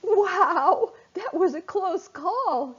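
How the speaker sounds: high, laughing relief; giddy relieved laughter. Acted. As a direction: laugh out the words after a near miss. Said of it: "then began to laugh".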